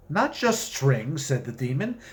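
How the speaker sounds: measured storytelling read; unhurried fiction reading; story narration. A narrator's reading. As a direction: read it like a wry tale told aloud. Author reads his story aloud.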